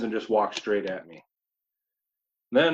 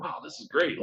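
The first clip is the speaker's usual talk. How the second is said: whispered thought; 5 dB quieter than usual. Retold or imitated. Hunter whispering in tree stand.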